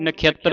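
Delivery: ਨਖੇਤਰ as na-khi-at-tar; glided vowel. Shown as a demonstration. Teacher models for learners, ਨਖੇਤਰ as na-khyat-tar. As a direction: put ya after kh and double the t in ਨਖੇਤਰ. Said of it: "ਇਸ ਨੇ ਐੜਾ ਬਣ ਜਾਣਾ".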